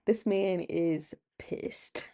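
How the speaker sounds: slow, low knowing drawl; knowing aside. Real, not acted. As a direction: tell the viewer like a gossiping friend. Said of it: "And I'm like".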